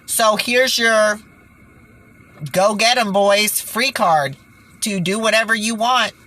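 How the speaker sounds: mocking the UN as if it were cheering them on; sarcastic mock offer. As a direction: hand it over like a bitter joke prize. Sarcastic paraphrase of UN policy.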